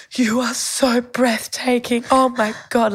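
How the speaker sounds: high, slow, breathless swoon from a lovestruck man; smitten admirer. Retold or imitated. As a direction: lightly voice the stunned admirer, drawn out. Smitten Greek man at mum.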